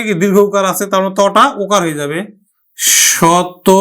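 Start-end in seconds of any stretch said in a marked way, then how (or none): 3.1-3.7 শত with ত said like তো; careful pronunciation. Shown as a demonstration. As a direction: say শত as শতো. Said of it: "আমরা উচ্চারণ করব কিন্তু". (শত শব্দটি শতো উচ্চারণে)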